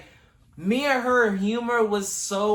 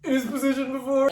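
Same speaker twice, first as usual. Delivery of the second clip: mock scared victim. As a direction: play the innocent scared guest. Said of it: "I said".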